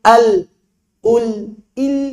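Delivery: al, ul, il each with a lam of different thickness; wrong lam. Shown as a demonstration. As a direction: show the lam changing with each vowel. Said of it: "Jangan sampai lam jadi begitu".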